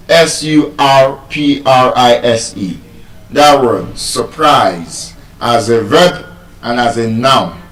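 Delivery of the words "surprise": surprise with the stress on -prise; unstressed schwa first, then a full -prise in surprise; stress on second syllable. Shown as a demonstration. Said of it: "it is stressed on the second syllable".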